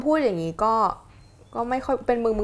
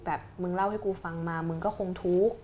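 soft, gentle therapist tone; softer, caring counsellor voice; 4 dB quieter than usual. Shown as a demonstration. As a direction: comfort them the way a therapist would. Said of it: "น้ำเสียงเปลี่ยน".

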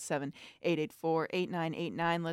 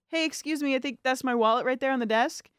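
polite request; 5 semitones higher than usual. Retold or imitated. Politely asking desk worker.

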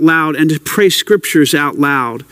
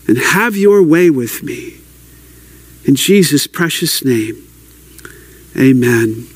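earnest prayer. Shown as a demonstration. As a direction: pray it out sincerely, pausing between petitions. Leads an example prayer.

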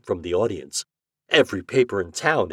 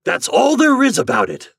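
loud, high-pitched outburst; thundering; 9 dB louder than usual. A narrator's reading. Angry store owner ending the argument, thundering. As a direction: thunder it as the final word. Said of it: "thundered Mister Richards".

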